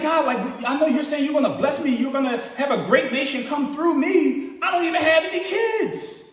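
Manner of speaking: rising into a mock shout, a touch indignant; frustrated complaint. Abram protesting to God that he has no kids, half-shouted.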